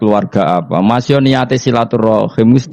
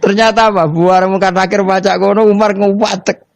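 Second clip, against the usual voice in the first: words bubbling out high through laughter; can't hold back the giggles while telling the punchline; laughing while telling; 11 semitones higher than usual. Real, not acted. Preacher to the congregation, laughing through the story.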